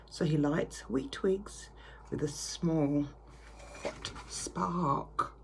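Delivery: put-on reading a picture book to children; lilting read-aloud voice; story narration. A narrator's reading.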